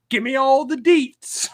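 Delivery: high, slow imitation of a gushing friend; mock gushing friend. Mocking a character in the book, high gushing voice. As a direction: send up a chatty best friend. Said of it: "best friends who say things like".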